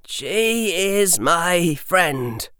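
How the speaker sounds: put-on slow, firm boy; a boy standing his ground, slowly; young boy voice. A narrator's reading.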